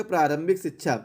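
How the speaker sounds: usual speaking voice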